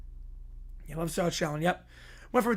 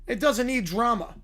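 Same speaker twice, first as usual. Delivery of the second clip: Hank Hill; 2 semitones higher than usual. Retold or imitated. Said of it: "by Hank Hill".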